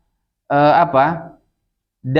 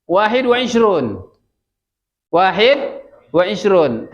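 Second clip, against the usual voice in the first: slow, drawn-out Arabic demonstration; model reading; slower than usual. Shown as a demonstration. Teacher showing students twenty-one in Arabic, slow model reading. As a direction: say it slowly for learners to follow. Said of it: "ini bahasa Arabnya apa nih".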